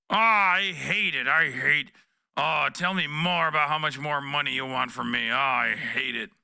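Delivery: a pretend tortured groan; mock moaning Biden. Mocking Biden as a willing pay pig.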